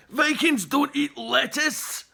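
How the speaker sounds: loud, slow indignant protest. A narrator's reading. Chief protests to the polite boy, indignant. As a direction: spell it out as an outraged Viking. Outraged chief refuses lettuce.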